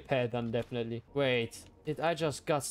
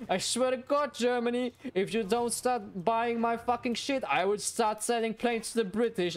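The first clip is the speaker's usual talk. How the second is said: mock threat; 7 semitones higher than usual. Gamer threatens Germany over trade, raised mock ultimatum. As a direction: threaten an ally in jest.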